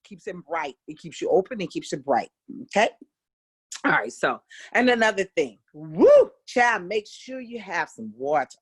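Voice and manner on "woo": loud burst of woo; sudden whoop. Real, not acted. Teacher suddenly whooping before a water reminder. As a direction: break off with a quick woo. Sudden exclamation, interrupting herself.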